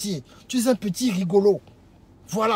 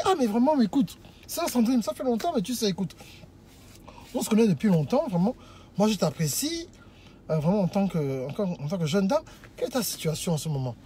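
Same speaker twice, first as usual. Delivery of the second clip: low, softened smooth-talker demo; acted poised suitor, voice sinking as it goes; calm, composed courting; 4 semitones lower, 3 dB quieter than usual. Shown as a demonstration. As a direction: woo unhurriedly, as if at a table. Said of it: "avec une voix, tu ne bégayes pas".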